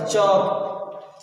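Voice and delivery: rounded O and no L in "चौक"; चौक with silent L. Shown as a demonstration. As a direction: say "चौक" as "chawk". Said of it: "इसे चौक पढ़ेंगे".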